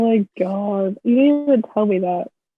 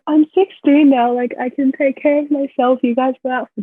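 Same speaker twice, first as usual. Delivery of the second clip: mimicking bratty teen; 4 semitones higher than usual. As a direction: imitate her sixteen-year-old self, higher. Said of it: "you're like".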